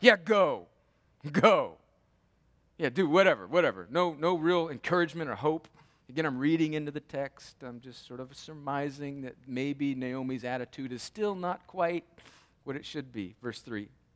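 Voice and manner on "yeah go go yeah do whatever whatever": louder, bitter, grudging, dismissive tone. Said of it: "talking under her breath in bitterness".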